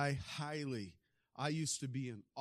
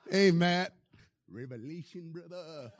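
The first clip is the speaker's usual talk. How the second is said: laughing boast; 2 semitones higher, 9 dB louder than usual. Retold or imitated. Peter boasting to Matthew, laughing.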